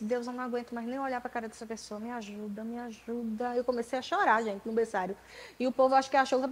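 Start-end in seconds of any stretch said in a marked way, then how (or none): 0.0-3.5 hushed, pleading prayer to God; soft tearful-sounding me ajuda; quiet plea. Retold or imitated. Praying to God for help while hurting, soft pleading. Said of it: "eu disse".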